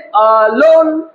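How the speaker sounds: আহ, লোন said as two separate syllables; two-syllable demo. Shown as a demonstration. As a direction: break it into আহ, then a drawn-out লোন. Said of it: "দুটো syllable রয়েছে".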